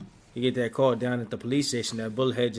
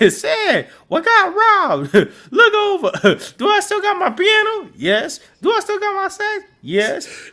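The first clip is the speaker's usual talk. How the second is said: much higher, louder, laughing panic; frantic high-pitched laughing panic; mock panic; 11 dB louder than usual. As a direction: shriek it out in hammed-up terror through laughter. Steve panicking at trashed room.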